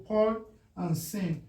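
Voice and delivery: "poi" and "sin" each set apart; separate syllables. Shown as a demonstration. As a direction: pause between "poi" and "sin". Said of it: "breaking it according to the syllable".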